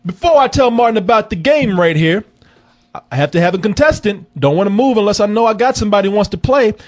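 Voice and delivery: high, loud, upbeat game-show host patter; radio host voice. Acted. Host inviting listeners to email in, upbeat announcer.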